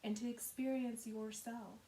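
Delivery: measured, unhurried meditation guidance with long pauses; guided meditation. Acted. Yoga teacher settling listeners into Yoga Nidra, calm guided meditation. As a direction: guide gently, softening at the ends of phrases.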